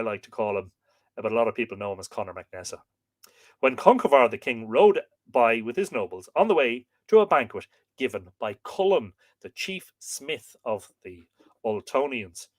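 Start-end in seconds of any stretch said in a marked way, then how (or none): 3.6-12.5 measured legend reading, easing off at the end; story narration. A narrator's reading. Storyteller telling of a king's journey, measured narration. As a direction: read it out phrase by phrase. Reads a myth aloud.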